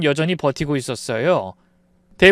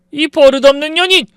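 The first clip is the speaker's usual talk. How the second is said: enraged insult; 12 semitones higher, 9 dB louder than usual. Acted. Father-in-law lunges at her.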